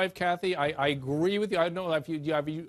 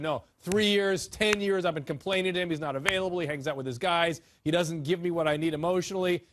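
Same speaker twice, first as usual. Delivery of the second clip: quoting insistent wives. Retold or imitated. Host voices wives answering husbands' claims, insistent retold complaint. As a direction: list the grievances as a retold wife. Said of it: "when you talk to the wives, they said".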